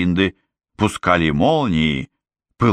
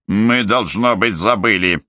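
snapping back; 3 semitones higher than usual. Acted. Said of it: "огрызнулась Момби".

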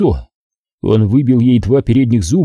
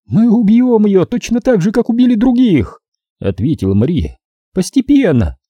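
higher, taunting woman's voice full of contempt; gloating female captor; 10 semitones higher than usual. A narrator's reading. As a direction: sneer it at the rich man, pitched up. Captor relishes killing. (злорадная похитительница, высоким голосом)

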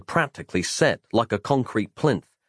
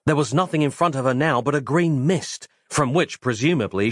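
ordinary delivery, nothing marked

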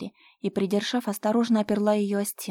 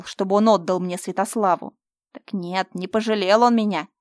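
menacing rant; 7 dB louder than usual. Acted. Fyodor threatens Mira, loud and gloating.

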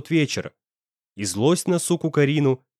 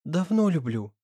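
higher, suddenly hoarse voice; hoarse confession; 4 semitones higher, 4 dB quieter than usual. A narrator's reading. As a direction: confess love with a voice gone hoarse. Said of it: "резко осипшим голосом". (осипшим голосом)

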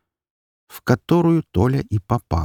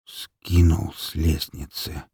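slow dazed echo; 3 semitones lower, 4 dB quieter, slower than usual. Acted. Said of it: "снова повторил за скелетом Толя".

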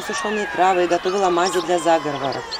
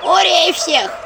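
clamouring shouts; 2 semitones higher, 4 dB louder, much slower than usual. A narrator's reading. Villagers clamour at the healer, loud shouting. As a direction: shout over the others. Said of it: "загалдела деревня".

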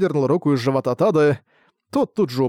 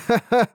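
creaky laugh; 9 semitones higher than usual. A narrator's reading. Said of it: "скрипучий смех".

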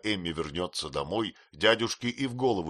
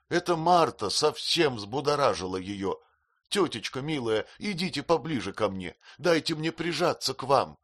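tearful plea; 7 semitones higher than usual. Acted. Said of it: "рыдая, промолвила Эмилия".

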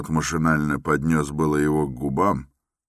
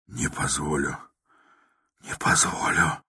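softer, whispered mechanical repeat; 3 dB quieter than usual. A narrator's reading. Raskolnikov repeating his refusal, whispered. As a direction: repeat it numbly under your breath. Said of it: "совершенным шёпотом".

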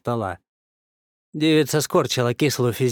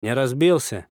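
sympathetic. A narrator's reading. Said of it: "сочувственно поинтересовался".

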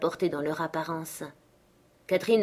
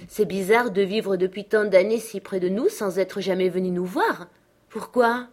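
put-on higher-pitched, lively girl's voice; eager young girl, exclaiming; 3 semitones higher, 5 dB louder than usual. Catherine chiding her uncle for never visiting, eager. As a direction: press the question eagerly.

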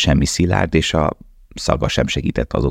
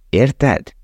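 Russian worker; 8 semitones higher than usual. Acted. Russian asks Lale.

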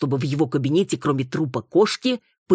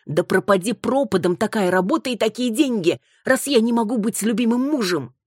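complaining wife; 8 semitones higher than usual. Acted. Wife complains about absent husband.

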